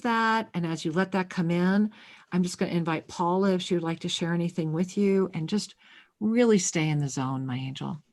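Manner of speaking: gentle host easing the caller along; soothing. Real, not acted. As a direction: keep her calm in the zone. Closing soothing guidance.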